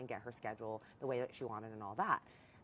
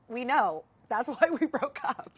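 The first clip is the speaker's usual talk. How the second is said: loud, high outburst edged with laughter; exasperated comeback; 9 semitones higher, 12 dB louder than usual. Retold or imitated. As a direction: throw the obvious back at him, loudly.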